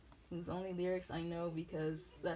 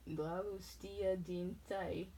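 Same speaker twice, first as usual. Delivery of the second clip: slow, mock German French accent; much slower than usual. Shown as a demonstration. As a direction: read it slowly in a muddled German French accent. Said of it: "my German French accent".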